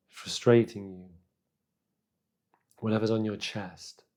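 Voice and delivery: calm, unhurried meditation guidance with long pauses; guided meditation. Real, not acted. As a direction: guide them gently inward, leaving space between phrases.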